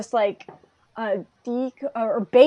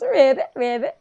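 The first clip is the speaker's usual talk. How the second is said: imitated cheerful ribbiting; happy frog ribbit; 2 semitones higher, 4 dB louder than usual. Host imitates Sue's happy response to passing, cheerful ribbit. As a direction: do a little happy frog croak. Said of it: "like, very happy".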